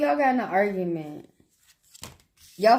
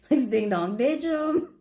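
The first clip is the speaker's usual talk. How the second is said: laughing retelling; 3 semitones higher, slower than usual. Retold or imitated. Voicing mischievous twin friend.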